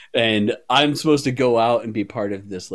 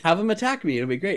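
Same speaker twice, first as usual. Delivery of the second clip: ditzy suggestion; 7 semitones higher, faster than usual. Retold or imitated. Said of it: "acting super ditzy".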